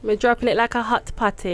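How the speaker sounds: put-on Jamaican patois; Jamaican accent. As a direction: play along in Jamaican. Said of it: "I could do Jamaican".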